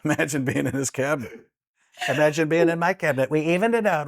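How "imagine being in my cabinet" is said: a touch of Biden; lightly voiced folksy line; Joe Biden impression. Shown as a demonstration. Biden joking about his own cabinet. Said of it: "Joe Biden".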